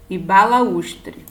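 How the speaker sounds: balaústre, ba-la-Ús-tre, slow and clear; syllable-by-syllable balaústre. Shown as a demonstration. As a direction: draw out balaústre, leaning on ú. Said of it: "Por exemplo".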